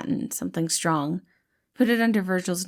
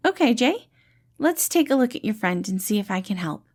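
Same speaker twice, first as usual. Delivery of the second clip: gentle dad-like rescuer, pitched up and bright; cheerful caretaker Patton; 3 semitones higher than usual. Acted. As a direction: play the kind, upbeat helper calming a scared kid. Patton reassures Jay.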